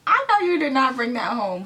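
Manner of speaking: put-on mom's African accent, scolding. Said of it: "but except in an African accent".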